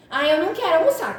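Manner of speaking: mock a little kid refusing lunch; whiny child. Mother imitating her daughter refusing lunch, whiny child voice.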